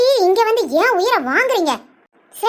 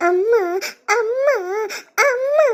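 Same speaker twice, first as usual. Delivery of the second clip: each அம்மா rising higher in a wailing cry; crying for mother; 3 semitones higher, slower than usual. Acted. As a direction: wail அம்மா like a lost child, climbing each time. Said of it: "இசைக்கு அழுகுதா இல்ல humming பண்ணுதா?". (அம்மா என்று அழுகையுடன் கூவுதல்)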